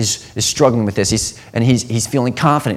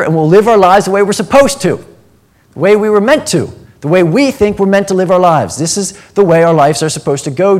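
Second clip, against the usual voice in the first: higher, louder, insistent plea; urgent friends pleading; 4 semitones higher, 3 dB louder than usual. Retold or imitated. Friends urging Jesus not to die, raised insistent pleading. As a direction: push him to become king now. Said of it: "If we were Jesus' friends".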